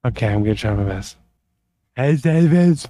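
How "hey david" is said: put-on girl voice. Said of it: "you gotta give us your best girl voice".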